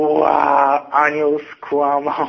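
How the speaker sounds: slow, drawn-out mocking jeer. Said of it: "A wszyscy w szeregu od razu".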